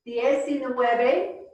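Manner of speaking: Diecinueve drawn out, die-ci-nue-ve; slow model. Shown as a demonstration. Teacher modelling the number slowly. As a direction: stretch it out for the class. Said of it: "Let me say it first".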